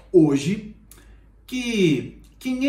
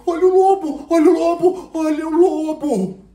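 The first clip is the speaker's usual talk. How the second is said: much higher, much louder real alarm; boy screaming for help, higher and louder; desperate shouting; 13 semitones higher, 10 dB louder than usual. Acted. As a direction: scream for help, the wolf is here. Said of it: "E Pedrinho gritou".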